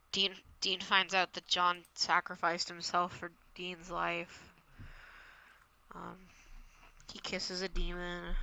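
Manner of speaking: very soft, low, halting recap; petering out. Real, not acted. Host running out of episode summary, petering out. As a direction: let the summary die away quietly.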